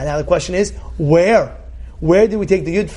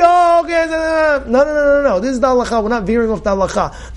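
firm refusal; 5 semitones higher than usual. Retold or imitated. Rabbi refusing to bend halacha.

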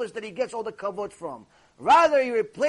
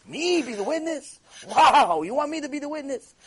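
mock surprise; 4 semitones higher than usual. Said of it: "all these things are surprise to me".

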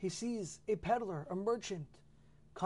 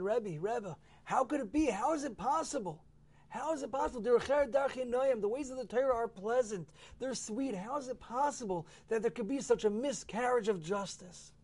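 pleading complaint; 6 semitones higher than usual. Acted. Student complains to the Baal Shem Tov.

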